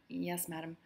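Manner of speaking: soft, meek yes madam; murmured. Acted. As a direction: answer barely above a murmur.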